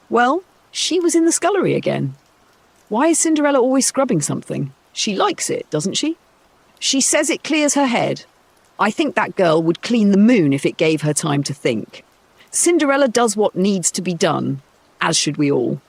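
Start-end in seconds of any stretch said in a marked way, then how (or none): 0.1-10.5 put-on higher, quick catty girl's voice; a daughter sniping about her stepsister; gossiping high daughter. Daughters gossip about Cinderella always scrubbing, high and catty.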